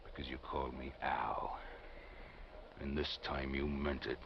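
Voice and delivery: whispered threat, close and low; menacing whisper. Acted. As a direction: let the reveal slip out in a whisper. Killer revealing himself at ravine.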